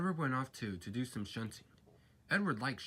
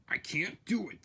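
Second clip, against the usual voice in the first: whining; 8 semitones higher, 4 dB louder than usual. A narrator's reading. Gordon whining.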